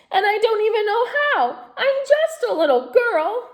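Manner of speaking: put-on a child pouring out her woes; tearful girl. A narrator's reading. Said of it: "sobbed Natasha".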